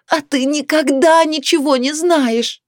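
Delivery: high slow shout. A narrator's reading. Wife shouting at her husband, high and slow. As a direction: yell it at him in anger. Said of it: "закричала Наталья Васильевна".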